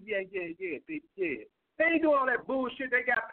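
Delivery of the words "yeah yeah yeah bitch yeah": softer, crooning lady's-man purr; mock smooth talk. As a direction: play the smooth Mac Daddy. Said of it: "talking all smooth".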